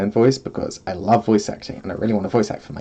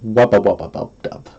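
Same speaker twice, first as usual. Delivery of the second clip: wubba dubstep noise; 2 semitones lower than usual. Shown as a demonstration. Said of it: "I can do the dubsteps".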